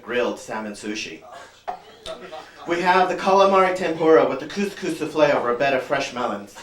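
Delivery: lightly voiced snooty waiter reciting specials. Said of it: "the waiter comes up, he goes".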